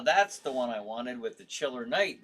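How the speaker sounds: normal talking voice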